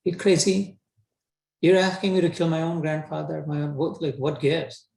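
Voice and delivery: Arjun balks, can't believe what he's asked; incredulous Arjun. Retold or imitated. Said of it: "Arjun is questioning Krishna".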